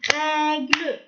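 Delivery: règle slowly split as rè-gle; syllable by syllable. Shown as a demonstration. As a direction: tap out règle in two stretched syllables. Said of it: "Tapez le mot".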